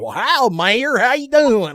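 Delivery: mock southern greeting; southern accent. Player imitating Walnut greeting the mayor, southern accent. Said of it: "he does it once in a while".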